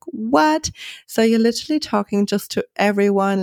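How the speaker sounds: high, astonished what; stunned, can't believe it; surprised disbelief. Retold or imitated. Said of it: "And I was like".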